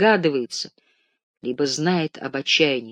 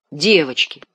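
louder, offended cry; offended exclamation; 5 dB louder than usual. Acted. Offended Ganechka exclaiming to the ward, loud. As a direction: cry it out as if insulted. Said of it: "воскликнул оскорблённый Ганечка".

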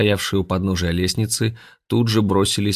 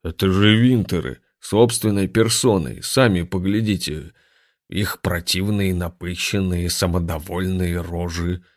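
billiard ball bass voice. Acted.

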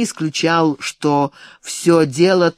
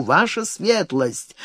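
breathless, slower gasped address; out of breath; 3 dB quieter, slower than usual. Acted. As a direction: gasp it out after running. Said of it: "запыхавшись".

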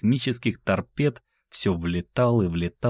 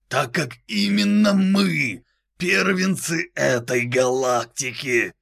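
demonic layered voice; 9 semitones higher, slower than usual. Acted. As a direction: boom down like a demon from everywhere. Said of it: "дьявольский голос Боуманда".

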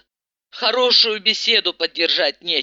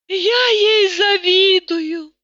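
slow, higher, rapt cry; enlightened exclamation; 11 semitones higher, 3 dB louder, much slower than usual. A narrator's reading. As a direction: exclaim it as if suddenly seeing the light. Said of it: "просветлённо воскликнула Тата".

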